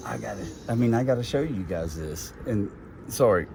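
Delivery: talking while up a ladder; straining a bit up on a ladder. Real, not acted. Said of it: "I'm way up on a ladder".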